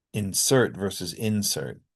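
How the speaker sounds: insert stressed on one syllable, then on the other; contrasting syllable stress. Shown as a demonstration. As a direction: contrast IN-sert and in-SERT. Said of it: "primary stress on the first syllable".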